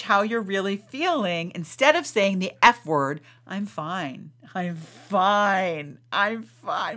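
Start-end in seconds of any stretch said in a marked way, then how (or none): 3.5-7.0 mock insistent "fine". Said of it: "My daughter hates it when I do that".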